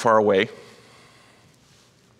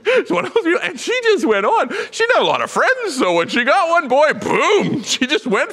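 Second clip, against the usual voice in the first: laughing; 3 dB louder than usual. Real, not acted. Laughing while telling story.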